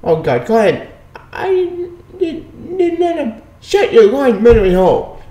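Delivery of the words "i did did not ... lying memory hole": mock shrill outburst. Mocking a character's outburst.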